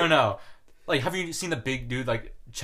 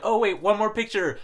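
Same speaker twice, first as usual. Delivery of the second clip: higher, slower mock-parent voice; drawn-out, raised parental plea; imitated parent; 9 semitones higher than usual. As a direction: lightly put on a parent stalling for photos. Parents voiced asking for photos.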